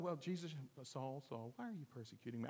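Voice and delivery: hushed, gentle call to Saul; quiet voice. Shown as a demonstration. Preacher imagines Jesus calling Saul in a hushed, quiet voice. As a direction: say it softly, as if just talking. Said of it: "it couldn't have been in a quiet".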